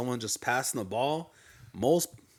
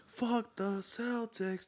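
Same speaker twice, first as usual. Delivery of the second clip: each word stretched out slowly; slow drawn-out jeer; 9 semitones higher, 7 dB quieter, much slower than usual. Retold or imitated. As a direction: drag out "Fuck the Celtics" taunting. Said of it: "I was like".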